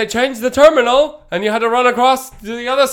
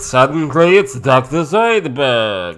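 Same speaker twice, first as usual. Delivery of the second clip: lightly done Jewish accent; 7 semitones lower, 3 dB louder than usual. Shown as a demonstration. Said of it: "if you do a Jewish accent".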